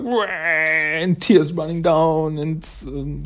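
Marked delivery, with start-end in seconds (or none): 0.0-0.2 mock sob wail. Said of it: "really sobbing".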